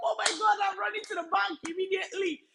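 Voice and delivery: quick, bright-eyed rush of joy; happy excitement. Retold or imitated. Client from Cameroon thrilled her payment problem is solved, excited. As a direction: gush like someone who just got good news. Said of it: "she was so happy".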